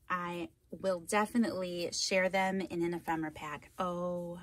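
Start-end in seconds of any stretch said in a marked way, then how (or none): 3.8-4.4 high, giddy thrilled gush; real excitement. Real, not acted. Crafter thanking the sender of a gift package, excited. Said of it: "I'm so excited".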